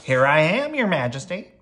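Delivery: storybook fireman's ready cry. A narrator's reading. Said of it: "cried the fireman".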